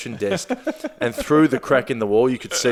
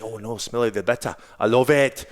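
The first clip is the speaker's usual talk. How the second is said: put-on Scottish accent. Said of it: "Oh, now she's Scottish".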